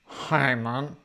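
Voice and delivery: put-on politician impression; Keir Starmer. Co-host asks the speaker for correspondence as Keir Starmer. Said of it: "I like that voice. What's that voice there".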